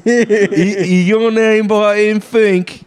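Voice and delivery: mocking voice. Mocking a name.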